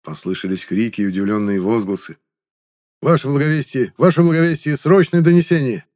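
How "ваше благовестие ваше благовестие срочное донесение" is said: loud, high urgent shout; urgent panting report. A narrator's reading. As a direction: burst in shouting the news. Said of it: "гонец ворвался".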